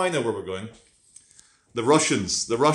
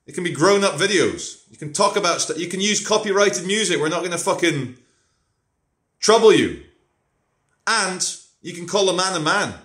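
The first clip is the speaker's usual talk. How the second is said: mocking Russian recruiter; 5 semitones higher than usual. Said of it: "They're saying".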